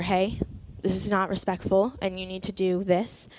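soft, even, patient telling-off; calm correction. Retold or imitated. Nanny sitting a five-year-old down to correct her, calm and soft. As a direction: gently lay down the rule, softly. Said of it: "I would be calm".

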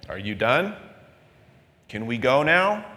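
lightly voiced patient Lord. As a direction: ask kindly, like a waiting parent. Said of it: "eventually always goes".

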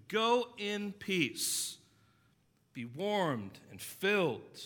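drawn-out blessing that means nothing; hollow churchy send-off, lightly mocked; mock pious farewell. Churchgoer dismisses needy person.

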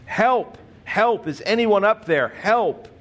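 high, desperate cries for help; calling for help. Acted. Jack shouting up the cliff for help, desperate yell. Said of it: "Jack began yelling for help".

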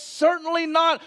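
high, emphatic "Certainly not"; "Certainly not" declared with force; great emphasis. Acted. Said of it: "with great emphasis".

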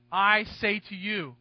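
"I" stressed, slow and deliberate; authoritative. Acted. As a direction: speak "I" with full authority, slowly. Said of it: "He said".

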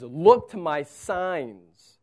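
very slow, firm divine answer; slow it right down, steady; God answering. Acted. God answering Moses' doubt, slow and firm. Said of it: "And God says".

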